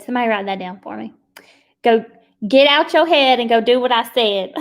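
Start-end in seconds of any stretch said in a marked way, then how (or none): 1.8-4.5 laughing repeat. Shown as a demonstration. To her team, repeating God's command with a laugh. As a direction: repeat the line through a laugh. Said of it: "That was good".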